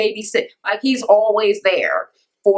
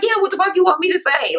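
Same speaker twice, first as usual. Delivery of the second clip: mock exasperation; 10 semitones higher than usual. Acts out exasperated boyfriend.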